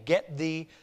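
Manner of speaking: low, soft, measured rebuke; firm but gentle. Retold or imitated. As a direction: rebuke gently, slow and quiet. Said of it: "firmly but gently, saying".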